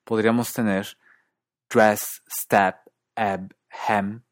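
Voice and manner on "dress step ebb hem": DRESS, STEP, EB, HEM with Canadian retracted vowel, toward 'a'; Canadian dress, step, eb, hem, like 'drass, stap'; Canadian accent. Shown as a demonstration. Teacher comparing three accents, Canadian retracted E. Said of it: "comparando Canadá".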